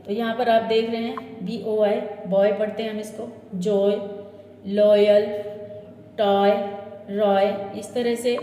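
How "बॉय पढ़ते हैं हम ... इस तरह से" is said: "जॉय" said with an oy glide, louder; model pronunciation. Shown as a demonstration. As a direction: clearly model the oy sound. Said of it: "इन सभी वर्डों का sound होता". ("ऑय" ध्वनि का साफ़ उच्चारण)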